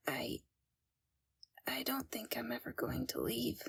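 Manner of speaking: hushed fearful whisper; frightened whisper. Acted. Captive Flora whispering to a stranger, frightened whisper. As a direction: whisper so the captors won't hear.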